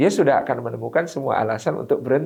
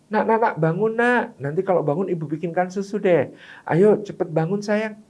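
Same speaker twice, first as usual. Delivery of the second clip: sweet, higher coaxing voice; first mother, coaxing; 4 semitones higher than usual. Shown as a demonstration. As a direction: wheedle the child awake with a promise. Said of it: "Ibu pertama membangunkan anaknya". (ibu membujuk anak bangun dengan iming-iming, suara manis lebih tinggi)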